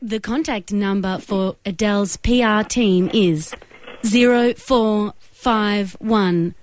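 robot voice, even and slow; automated operator voice. Pretend. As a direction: read it like a phone menu. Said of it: "automated operator voice".

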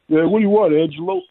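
curt New York wise-guy reply; New York character. Shown as a demonstration. Voice actor showing a stereotype, a New York guy answering a pal. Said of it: "You can just kinda go".

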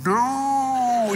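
long, high mock "no"; dad's horrified cry. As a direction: cry out in drawn-out dismay as the dad. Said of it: "his dad's going".

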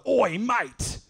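high, loud shout across the road; yelled call. Retold or imitated. Homeless man calling out again from his walker. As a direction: bellow it up the street.

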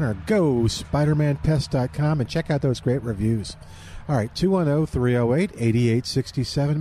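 upbeat sponsor read on air; radio ad read. Acted. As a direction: sell it like a live radio spot. Host reads sponsor ad.

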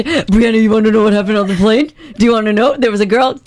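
giddy voice. Retold or imitated. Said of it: "I can imagine the giddy voice".

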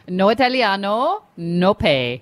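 slow, light mock Italian accent. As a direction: say it slowly with a hint of Italian accent. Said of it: "Do I do it in my Italian accent".

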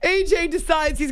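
laughing. Real, not acted. Still laughing.

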